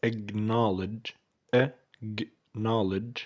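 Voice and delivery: "Acknowledge" very slowly in separated parts, "ak-NOL-ij"; drawn-out teaching "Acknowledge"; syllable-by-syllable. Shown as a demonstration. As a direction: break "Acknowledge" into pieces with pauses. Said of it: "كلمة acknowledge".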